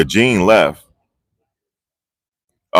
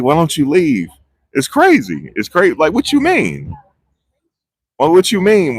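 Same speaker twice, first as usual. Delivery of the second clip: mock disbelief; 8 semitones higher than usual. Mocking the witness lines.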